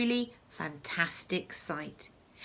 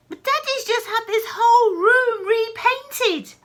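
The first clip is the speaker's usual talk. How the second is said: laughing worry; 13 semitones higher, 11 dB louder than usual. Acted. George frets about the room.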